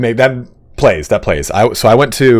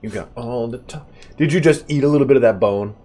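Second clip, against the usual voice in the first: pet talk; 6 semitones higher than usual. Acted. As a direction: coo at the pup like a baby. Talking to his in-game dog.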